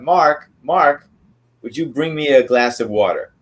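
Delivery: calling offstage for Mark. Retold or imitated. Boss calling assistant from the stage, calling out. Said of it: "he would call out".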